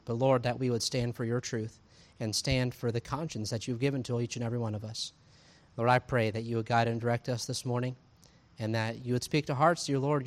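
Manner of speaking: earnest, measured public prayer; closing prayer. Real, not acted. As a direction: lead the congregation in prayer, steady and restrained.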